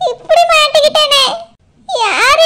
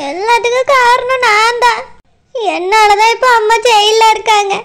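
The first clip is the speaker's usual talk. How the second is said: tearful guilt; 3 semitones lower than usual. Acted. Daughter blames herself for mother's jailing, crying. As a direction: choke on the guilt.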